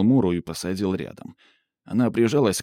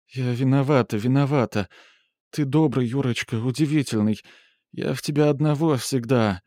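pleading woman; 2 semitones higher than usual. Acted. Mura pleads guilty.

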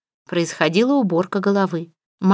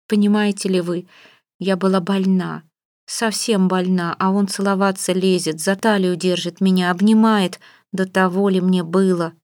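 usual speaking voice

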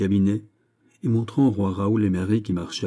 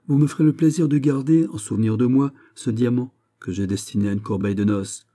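lightly voiced ceremonious monarch; gracious king; 4 semitones higher, 4 dB louder than usual. King giving a parting diamond, ceremonious. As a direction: begin strongly, easing into a gracious bestowal.

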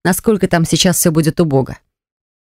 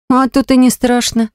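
scoffing; 5 semitones higher than usual. Acted. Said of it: "хмыкнула я".

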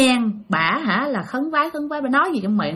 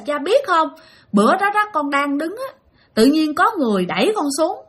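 imitating crying; 4 semitones higher than usual. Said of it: "bà khóc cái bà nói".

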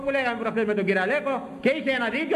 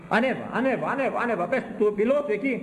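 rising, ever higher commands; building urging; 5 semitones higher than usual. Pretend. Preacher urges an imagined pilot upward, pitch climbing. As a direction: climb in pitch with each word.

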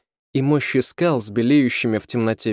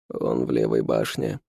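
servant's voice, pitched low; 13 semitones lower, 4 dB quieter than usual. A narrator's reading. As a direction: answer low and humble, like a servant. Servant answers the count.

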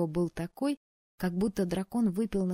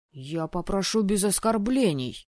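indignant; 6 dB louder than usual. Acted. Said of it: "негодующе взвился".

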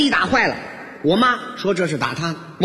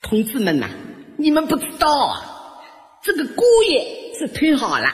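put-on high-pitched, gushing old mother-in-law; praising mother-in-law; 5 semitones higher than usual. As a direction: brag about your son-in-law to all the neighbours. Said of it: "我岳母一边给我擦汗，一边夸我". (岳母尖声夸女婿)

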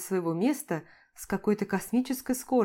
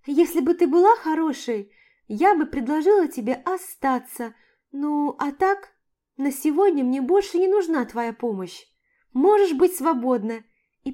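giddy high dismissal; 5 semitones higher, 4 dB louder than usual. A narrator's reading. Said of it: "Пробормотала я ей".

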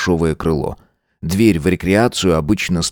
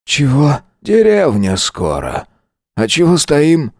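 put-on drowsy high boy voice; just woken, mumbling questions; sleepy; 8 semitones higher, slower than usual. A narrator's reading. Sleepy boy waking in the car, drowsy. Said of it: "спросил сонным голосом".

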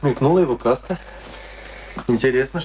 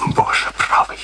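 stunned whispered oath; slower than usual. Acted. Kurt hears of the betrayal, whispered oath. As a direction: breathe it out in shock. Shocked exclamation in drama.

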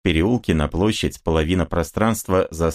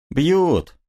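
short confirming answer, much higher voice; 10 semitones higher than usual. Acted. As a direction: answer it high and flat. Answer to streltsy question. (мастеровой отвечает стрельцам высоким голосом)

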